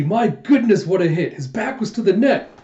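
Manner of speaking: excited match call; amazed commentator. Acted. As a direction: marvel at the play like a commentator.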